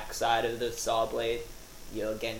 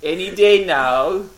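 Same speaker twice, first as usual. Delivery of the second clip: mock impatient; 6 semitones higher, 11 dB louder, slower than usual. Mock impatience under pendulum.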